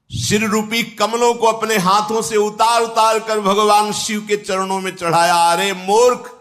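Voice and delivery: lightly acted demon king, proudly declaiming; boastful Ravan. (Ravan की हल्की अभिनीत घमंडी गर्जना)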